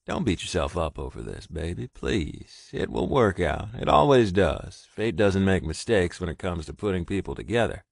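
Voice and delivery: steady, comforting, firm; firm reassurance. Acted. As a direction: reassure him it's not his fault. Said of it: "he stated firmly".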